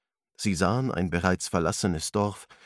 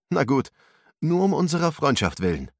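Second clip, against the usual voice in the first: higher, smiling give-in; 8 semitones higher, 5 dB louder than usual. A narrator's reading. Ruslan agrees to help Arthur, smiling. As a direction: agree with a smile for a friend. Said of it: "lächelte Ruslan".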